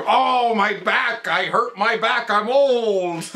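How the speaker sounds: high, drawn-out mock wail; imitated old man complaining. Voices the Count complaining of back.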